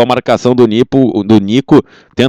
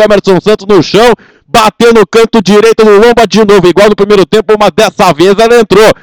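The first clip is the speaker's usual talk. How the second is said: excited replay; 6 semitones higher than usual. Real, not acted. Goal replay narration.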